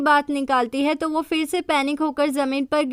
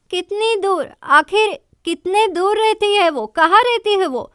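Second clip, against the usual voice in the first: higher, insistent demanding questions; mild retold shouting; 5 semitones higher, 4 dB louder than usual. Rival presses Sanam about the singer's address, mild mock shout. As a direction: press her hard on where she lives. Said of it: "मुझ पर क्यों चिल्ला रही हो".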